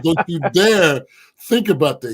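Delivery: half-joking, half-serious don't-you-dare; laughing mock threat. Laughing warning to friend.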